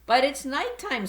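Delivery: high squeak of worry; squeaky. Acted. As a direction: squeak it out nervously. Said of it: "squeaked Stella Luna".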